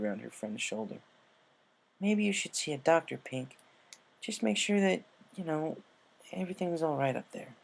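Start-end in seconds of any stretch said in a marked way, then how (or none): 2.0-7.5 lightly voiced higher pony, careful and kind; a hint of worried friend; Rainbow, concerned. Rainbow gently suggests a doctor.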